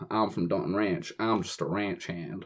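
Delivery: put-on ranch hand's country accent; thick country accent. Camp counsellor posing as ranch hand, country accent. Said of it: "do it in a thick country accent".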